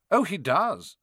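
airy, slightly high agreement; casual. A narrator's reading. Quirrell confirms Snape hates Harry, casual. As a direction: agree offhandedly. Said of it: "said Quirrell casually".

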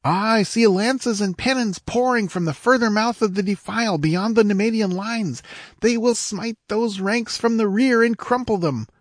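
high-pitched exultant squire. A narrator's reading. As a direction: crow over the enemy's blunder. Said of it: "shouted the squire exultantly".

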